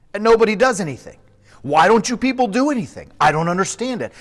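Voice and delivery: rising outrage at the soldiers; indignant outburst. A narrator's reading.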